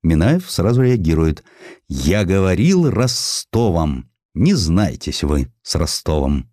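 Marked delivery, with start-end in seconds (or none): none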